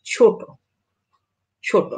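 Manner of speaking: ছোট with final vowel as o; ছোট said as chhoto. Shown as a demonstration. Teacher demonstrating ছোট for students, final vowel as o. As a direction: read ছোট ending in a clear o sound. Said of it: "যেমন".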